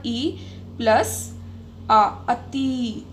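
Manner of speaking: ई plus आ, अति stretched slowly, sound by sound; drawn-out sounds. Shown as a demonstration. Teacher drawing out each sound for the class. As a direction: spell out the sounds slowly for students. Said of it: "आवाज़ आ रही है ना".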